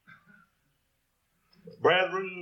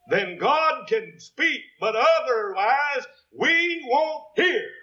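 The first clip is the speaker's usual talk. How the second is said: slow pulpit emphasis building in force; emphatic preaching; 5 semitones higher, slower than usual. Real, not acted. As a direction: preach it slowly, pressing each word. Preacher drives home his point.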